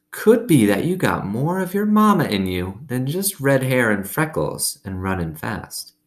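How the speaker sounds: lightly voiced old woman. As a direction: tell it like a kindly old woman. Gloria Dump speaks in story.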